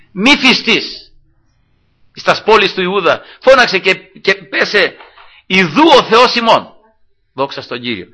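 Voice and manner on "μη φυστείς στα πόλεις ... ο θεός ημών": high, loud prophetic proclamation; Ησαΐας. Retold or imitated. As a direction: cry the verse out to a whole city. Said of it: "«Φώναξε», λέει". (δυνατή προφητική διακήρυξη)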